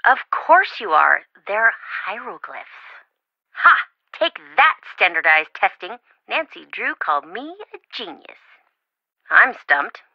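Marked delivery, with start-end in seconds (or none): 3.5-6.0 triumphant gloat. Acted. Friend gloats after solving puzzle.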